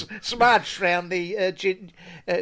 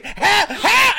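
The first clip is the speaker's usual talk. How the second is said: much higher, louder, squealing help; mock cry for help; 14 semitones higher, 9 dB louder than usual. TV presenter covered in cream pleading, mock cry for help. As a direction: plead for rescue. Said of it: "She's reaching".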